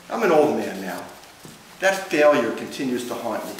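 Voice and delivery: measured, lightly wry poem recital; poetry reading. Acted. Poet reading about his failing handwriting, measured recital. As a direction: read it as verse, a pause after each line.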